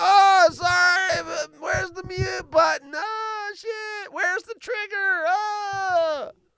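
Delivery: put-on very high drunken drawl. Imagining Darren fumbling for the mute button: imitating Darren drunk. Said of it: "He gets so drunk, he's like".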